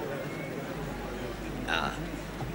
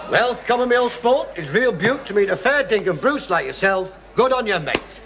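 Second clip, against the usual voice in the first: mock Australian; 2 semitones higher than usual. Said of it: "We don't talk like that here in Australia".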